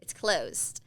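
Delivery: unvoiced whisper, a touch firmer; whispered again. Real, not acted.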